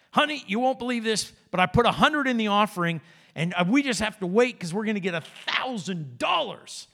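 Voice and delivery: earnest excuse with rising excitement; acted eager husband. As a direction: lightly play a hopeful husband pitching good news. Acting husband explaining to his wife.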